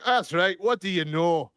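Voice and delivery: put-on loud, high-pitched Wisconsin accent. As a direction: challenge them in a hammed-up Wisconsin accent. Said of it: "we pick up the accent for a while".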